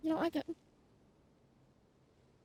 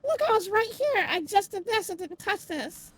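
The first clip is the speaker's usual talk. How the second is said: indignant protest; 3 semitones higher, 6 dB louder than usual. Real, not acted. Puzzle reset, complains loudly.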